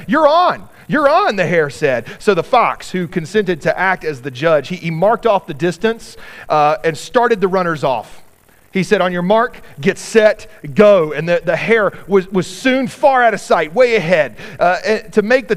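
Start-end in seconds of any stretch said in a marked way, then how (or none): 0.1-1.3 high, loud, cocky hare; trickster tale voices. Acted. Hare accepting boastfully. 9.0-11.1 trickster tale voices. Acted. Fox judge starting race.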